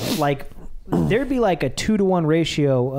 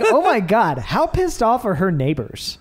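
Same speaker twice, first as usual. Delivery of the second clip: amused disbelief; 4 semitones higher than usual. Retold or imitated. Mock outrage retelling anime scene.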